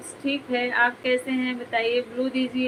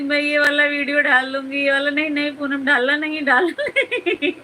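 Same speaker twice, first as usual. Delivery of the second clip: mock threat; 2 semitones higher, 3 dB louder than usual. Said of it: "मैं इनको खूब धमका रही थी".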